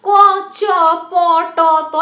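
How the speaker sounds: single consonant sounds ক, চ, প, ট, ত with pauses between; isolated speech sounds. Shown as a demonstration. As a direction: say ক, চ, প, ট, ত one by one, each separate. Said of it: "এরকম আমি বলছি যে একদম ক্ষুদ্রতম যে অংশটাকে".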